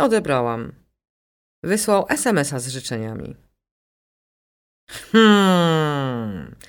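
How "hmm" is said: a low, closed-mouth "hmm"; thoughtful murmur. A narrator's reading. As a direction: hum while thinking it over. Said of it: "zamruczała z ukraińskim akcentem". (zamyślone mruknięcie "hmm")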